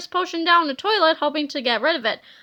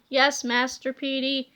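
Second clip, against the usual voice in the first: lower, softer droning zombie; zombie reply; 4 semitones lower, 4 dB quieter than usual. Acted. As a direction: answer like a mindless zombie.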